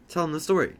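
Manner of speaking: talking through a mouthful; words around a bite of food; mouth full. Acted. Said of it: "Don't talk with your mouth full".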